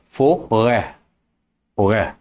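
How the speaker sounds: stretched, heavier ê in "forêt"; heavier circumflex vowel. Shown as a demonstration. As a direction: lean on the ê in "forêt", musically. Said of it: "makes the sound more musical".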